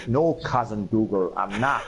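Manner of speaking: slow, mimicked Scottish film hero; bad film Scottish. Fan quotes the film hero's reply, mock Scottish accent. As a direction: imitate a shaky attempt at Scottish, drawing it out. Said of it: "And he's like".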